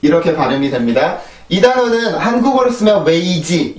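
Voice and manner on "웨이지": 웨이지 as three even, full syllables; Korean three syllables. Shown as a demonstration. Teacher shows the Korean spelling, 웨이지 in three syllables. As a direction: give each syllable of 웨이지 its own vowel. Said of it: "이렇게 삼음절이요".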